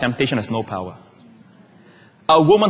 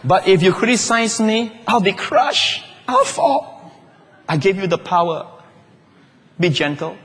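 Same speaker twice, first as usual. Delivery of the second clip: pleading, breaking upward on the fall; mock fragile plea; 2 semitones higher than usual. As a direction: play a fragile soul begging not to be crushed. Voicing fragile person begging gentleness.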